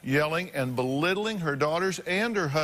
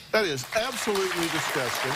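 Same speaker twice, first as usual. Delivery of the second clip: disgusted; 3 semitones higher than usual. Real, not acted. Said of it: "let me say what everybody's thinking".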